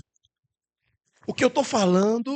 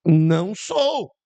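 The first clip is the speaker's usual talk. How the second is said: slow denial; 2 semitones lower, 4 dB louder, much slower than usual. Acted. Peter denies again, slow.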